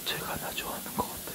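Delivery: hushed whisper; breathy secret whisper. Real, not acted.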